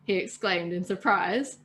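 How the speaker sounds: calm read-aloud storytelling voice; steady storyteller narration; story narration. A narrator's reading. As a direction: read it like a bedtime tale to friends. Reads story aloud to listeners.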